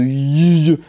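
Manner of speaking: y as a sustained buzzy yeu; double L as Y. Shown as a demonstration. Teacher showing Spanish double L, a long y sound. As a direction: hold the y sound alone. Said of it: "un peu comme un Y".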